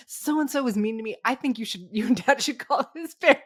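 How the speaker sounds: put-on kid complaining. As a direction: tattle like a young boy. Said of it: "he was like".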